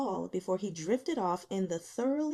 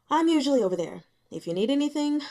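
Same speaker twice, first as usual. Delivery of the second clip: calling across; 5 semitones higher, 7 dB louder, faster than usual. Acted. Zhao calls across the hall.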